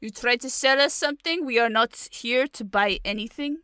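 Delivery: put-on botched Russian accent sliding towards French; French-sounding Russian accent. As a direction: try Russian and land near French. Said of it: "That sounds French now".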